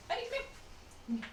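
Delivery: very soft, slow and high hi to the dog; soft coaxing. Real, not acted. Coaxing her shy dog to come, soft and slow.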